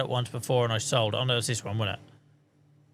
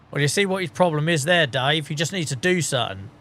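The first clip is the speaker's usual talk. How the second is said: mock football pundit; 2 semitones higher than usual. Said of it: "Joel, football pundit".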